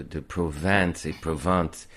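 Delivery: "Provence et Provence" slowly, one with an "in" sound and one with an "an" sound; two nasal vowels. Shown as a demonstration. Tutor contrasting the two vowels of "Provence". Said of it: "faire entre un et e".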